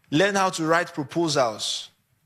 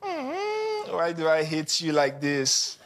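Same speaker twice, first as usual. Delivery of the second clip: slow, tender, whimpering coo; sweet hate; 3 dB quieter, slower than usual. Acted. Someone saying they hate you, slow and tender. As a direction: say hate like a love word. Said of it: "And then somebody says".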